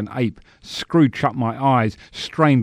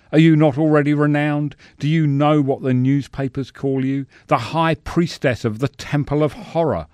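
raised, theatrical pleading; martyred protest; 5 semitones higher than usual. Acted. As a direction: protest like a long-suffering director to his star. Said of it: "he moans".

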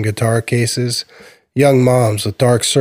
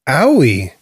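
put-on little boy; 3 semitones higher, 4 dB louder than usual. Little boy hurt, tripped over.

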